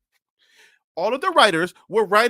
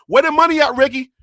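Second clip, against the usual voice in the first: mock demanding; 3 dB louder than usual. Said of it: "I'm coming with the camera".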